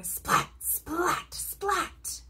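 crackling splat sound effect; lightning splats. A narrator's reading. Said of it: "He makes lightning".

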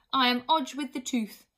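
loud, proud, offended little hag; huffy. A narrator's reading. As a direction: proclaim your name with wounded pride. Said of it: "she said huffily".

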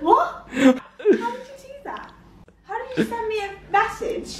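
high, laughing, disbelieving what; can't believe the trick; baffled disbelief. Real, not acted.

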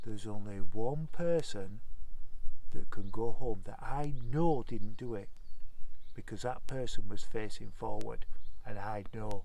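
slow, measured teacher reveal; slow deliberate. Retold or imitated. Teacher singling out the one innocent boy, slow and measured. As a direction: let each phrase land slowly.

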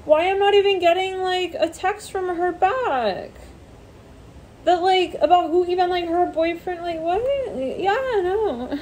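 high, pouty rant; mock whiny gossip. Someone ignored complains about her boyfriend, high pout. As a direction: whine about not getting texts.

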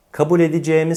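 "edeceğimi" reduced to e-di-ce-mi; closed e before the mi in "edeceğimi"; suffixed spoken form. Shown as a demonstration. Teacher gives an example, "edeceğimi" said e-di-ce-mi. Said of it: "söyleyiş yine değişiyor".

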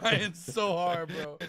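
breathless from laughing; after laughing hard. Real, not acted. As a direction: still laughing through it. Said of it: "I'm crying laughing".

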